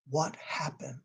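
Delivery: soft, breathy whispered question; gentle whisper. Retold or imitated. Shelter worker gently asking the man what happened, whispered. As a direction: ask it as if afraid to hurt him. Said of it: "because of how she asked the question".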